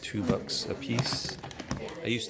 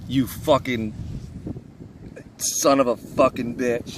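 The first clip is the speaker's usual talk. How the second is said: slow, seething curse; angry swearing; 6 dB louder, slower than usual. Real, not acted. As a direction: spit the curse out slowly. Cursing after the sting.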